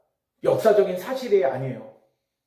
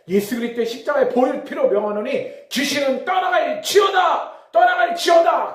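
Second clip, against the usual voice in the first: high, loud commanding shout; re-enacted deliverance prayer at full force; exorcism prayer command; 7 semitones higher, 4 dB louder than usual. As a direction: cast out spirits with a forceful, rising cry. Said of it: "어떤 기도를 따라하라고 그랬냐면".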